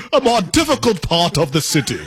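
put-on British phrasing, teasing; mock British. Co-host ribbing a British expression, mock British accent. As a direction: imitate a Brit's polite euphemism. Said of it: "That's such a British thing".

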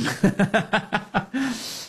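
high, real burst of laughter; laughing. Real, not acted. Host cracks up at his moon joke, real laughter. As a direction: laugh off your own joke.

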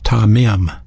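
tamim said as "tah-mim"; Hebrew pronunciation. Shown as a demonstration. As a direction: say tamim with an open "ah", then "mim". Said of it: "is a Hebrew word pronounced".

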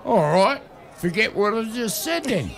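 grumpy yelled concession; mock exasperated shout. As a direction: throw up your hands and yell.

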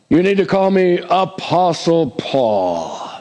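slow, drawn-out grand title; mock a man who insists on his title; pompous mock self-introduction; mock self-important. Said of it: "put emphasis on that word".

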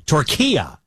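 "Turkiya" as three parts, tur-KEE-ya; corrected pronunciation. Shown as a demonstration. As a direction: say "Turkiya" with stress on the "ki". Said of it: "We've been pronouncing it wrong".

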